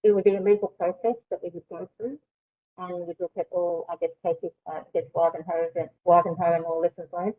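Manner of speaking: speaking through a face mask; muffled voice behind a mask. Real, not acted. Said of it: "you're just very muffled with your mask on".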